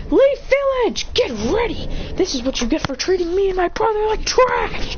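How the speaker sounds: high, hammed-up address to a whole village; microphone announcement. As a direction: call it out as if into a giant microphone. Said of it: "then he grabs a microphone".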